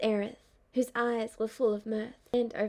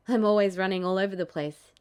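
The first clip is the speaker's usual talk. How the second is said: put-on lower, fond young man; easygoing Zack voice; 3 semitones lower, 6 dB louder, faster than usual. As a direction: say it fondly, easygoing.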